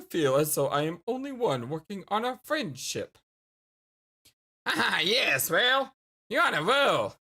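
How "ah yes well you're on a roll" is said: whisper. Acted. Alien answers, whispering.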